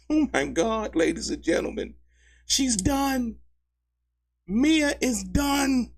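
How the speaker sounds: gleeful disbelief, stretching the words; laughing disbelief. Real, not acted.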